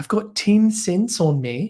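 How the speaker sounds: put-on slow, high New Zealand accent, sharp ten. Trying out a line about ten cents in a put-on New Zealand accent. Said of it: "I'm going to try to do a New Zealand accent".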